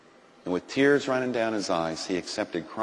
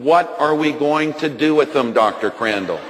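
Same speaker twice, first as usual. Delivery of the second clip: mild mock yell, raised at the start and falling off; retold scream; 3 semitones higher, 4 dB louder than usual. Doctor retelling the nurse's cry to him, mild yell. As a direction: imitate an alarmed nurse without really screaming. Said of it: "and the nurse screamed".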